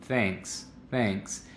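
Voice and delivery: thanks with little mouth movement, quiet; thanks with minimal movement; neutral thanks. Shown as a demonstration. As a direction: keep the mouth small on thanks. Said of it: "Muy poquito movimiento".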